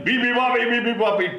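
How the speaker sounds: high, loud trumpet call. Acted. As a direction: blast it like an elephant. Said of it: "trumpeted the elephant".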